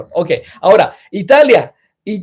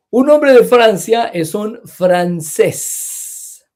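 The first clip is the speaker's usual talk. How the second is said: slow, clear model sentence with "hombre" stressed; slow teaching sentence; 5 semitones higher, slower than usual. Shown as a demonstration. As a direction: spell "Un hombre de Francia es un francés" out slowly for learners. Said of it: "teacher models sentence with francés".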